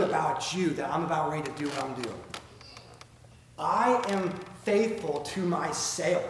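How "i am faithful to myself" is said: slow Southern drawl on "myself"; Southern accent. Real, not acted. Preacher reading God's words to Israel, Southern accent. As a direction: stretch "myself" into a Southern "mah-sayulf". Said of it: "you got my southern accent there".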